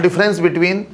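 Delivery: very slow, word by word for note-taking; teacher dictates a topic title to students, slowly spelling it out; slow dictation. Shown as a demonstration. Dictating a heading to the class, very slow and deliberate. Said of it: "छोटा topic से बना लो".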